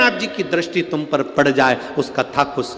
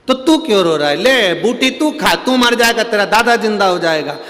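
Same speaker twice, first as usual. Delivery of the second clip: guru's challenge; 6 semitones higher, 7 dB louder than usual. Retold or imitated. Guru tests the crying grandson. (गुरुजी बच्चे को ज़ोर से और धीरे चुनौती देते हुए)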